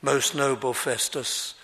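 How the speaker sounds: composed, courteous address to a superior; mild, measured politeness; polite and calm. Retold or imitated. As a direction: answer respectfully, without any heat. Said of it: "He says it very politely".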